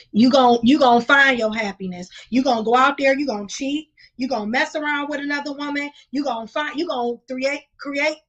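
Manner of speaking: loud lecturing rant at men; loud scolding tirade; loud heated rant. Real, not acted. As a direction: call them out, loud and fired up.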